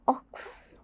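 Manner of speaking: ഓക്സ് whispered. Shown as a demonstration. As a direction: breathe ഓക്സ് without voice. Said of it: "ക്സ് വന്നോ".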